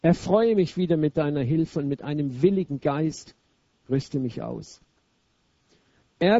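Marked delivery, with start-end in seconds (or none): 0.0-4.8 feierlich gebetet. Acted. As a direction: pray it reverently, line by line. Reads a psalm prayer. (feierliche Psalmlesung)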